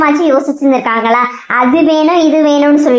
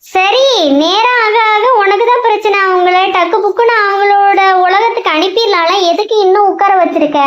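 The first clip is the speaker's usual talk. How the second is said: raised-pitch, insistent warning; urgent nagging; 4 semitones higher than usual. Acted. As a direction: press a friend to act before it's too late. Maasi urges Boomu to send them away. (அவசரமாக வற்புறுத்தும் எச்சரிக்கை)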